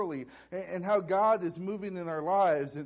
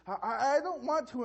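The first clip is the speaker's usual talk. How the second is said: higher, lightly voiced protesting child; reluctant little girl; 6 semitones higher than usual. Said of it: "And she says".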